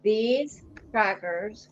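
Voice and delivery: words through a mouthful; chewing while talking. Real, not acted. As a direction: chew and talk at the same time. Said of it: "You can hear me eating".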